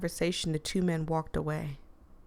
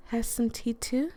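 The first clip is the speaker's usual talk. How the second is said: higher, smooth hostess voice; smooth, mellow Nari; 5 semitones higher than usual. Acted. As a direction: offer gently in a raised pitch. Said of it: "a smooth, mellow-toned voice".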